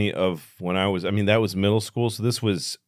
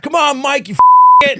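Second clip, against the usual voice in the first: very high, loud crowd scream; mock scream; 13 dB louder than usual. Kids in the crowd screaming at Mike to kiss, shrieking high. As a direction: scream at him to get on with it. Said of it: "fucking screaming at him".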